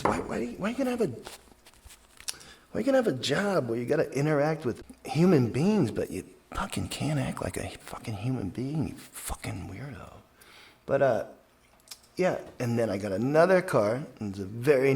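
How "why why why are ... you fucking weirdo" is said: fast, high-pitched retold tirade; angry rant. Driver lashing out at the passenger, fast and high. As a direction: rattle it off like the furious driver. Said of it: "He says".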